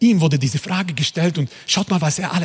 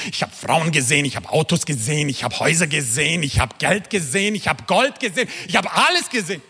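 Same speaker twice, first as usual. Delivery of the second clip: rising litany, building line by line; mounting repetitive list; weary Solomon listing. Acted. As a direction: list it off, climbing in pitch towards the end. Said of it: "er sagte uns".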